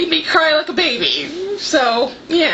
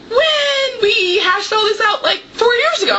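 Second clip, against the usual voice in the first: mock exasperated friend; 6 semitones higher than usual. Friend retelling the plot talk, mock exasperated. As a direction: play the fed-up friend lightly. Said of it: "And she was like".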